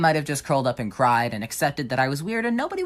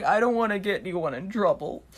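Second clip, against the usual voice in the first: higher, put-on wounded little voice; mock pitiful victim; 6 semitones higher than usual. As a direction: play the innocent victim for sympathy. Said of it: "And I was like".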